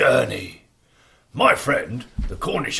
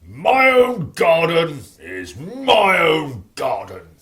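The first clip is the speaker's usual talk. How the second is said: selfish giant voice; 4 dB louder than usual. Acted. Giant repeating his claim.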